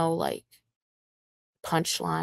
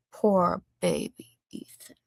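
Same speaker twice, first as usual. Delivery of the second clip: slow mocking pity; slower than usual. Real, not acted. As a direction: coo it at him slowly. Mocking him for crying.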